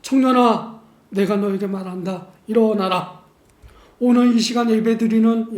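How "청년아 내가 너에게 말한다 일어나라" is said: Jesus' command, brief and forceful; a commanding call to the dead youth to rise; short and powerful. Acted. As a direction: speak it short but with power. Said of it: "짧지만 강력하게 말하십니다".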